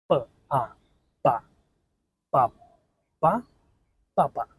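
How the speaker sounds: pa said twice, then joined into papa; syllable blending. Shown as a demonstration. Teacher building a word for learners. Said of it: "make the word mama".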